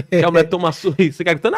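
laughing through the words. Real, not acted. Officer laughing to the podcast host about the rich woman's scene, laughing. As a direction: chuckle as you describe her yelling.

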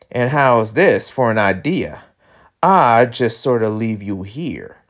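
lightly drawled cowboy villain; slow country drawl, lightly put on; Southern drawl character. Voices Montresor.

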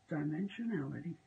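a light American accent on one long word. Shown as a demonstration. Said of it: "say that in an American accent".

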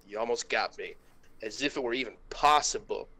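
ordinary talk

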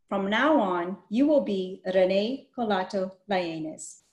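even, read-aloud storybook voice; story narration. A narrator's reading. Teacher reading a picture book to children, storytelling voice.

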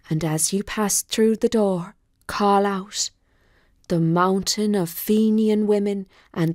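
a hint of a kindly well spirit; gentle spirit. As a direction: spirit of the well soothing the despairing woman. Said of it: "a gentle voice say".

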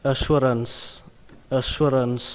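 "Assurance" ending on a clear S; final S. Shown as a demonstration. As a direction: finish "Assurance" on the S. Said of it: "kết thúc bằng âm sờ".

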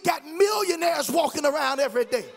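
preaching at full force. Acted. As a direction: build it to a roaring climax.

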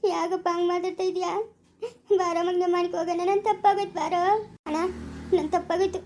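tearful, begging through sobs; crying plea. Acted. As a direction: plead for forgiveness while crying. Sister weeps, begs forgiveness. (ಅಳುತ್ತಾ ಬೇಡಿಕೊಳ್ಳುವುದು)

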